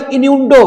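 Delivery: innuendo drawn out slowly; innuendo sounded out. Shown as a demonstration. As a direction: stretch innuendo syllable by syllable. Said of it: "ऐसे करके उसको pronounce करते हैं".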